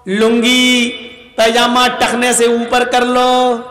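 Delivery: lightly imitated imam, drawn-out level call; hint of a prayer-line announcement; imam's announcement. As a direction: mimic an imam instructing the rows. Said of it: "تب امام صاحب کہہ دیتے ہیں".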